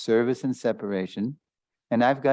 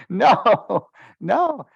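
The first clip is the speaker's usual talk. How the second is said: retold crying; 11 semitones higher, 7 dB louder than usual. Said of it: "She just burst out crying".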